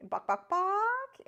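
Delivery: very high, slow, stretched buck-buck; drawn-out bird call. Retold or imitated. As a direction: hold each buck out as long as you can, up high. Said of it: "hold that out".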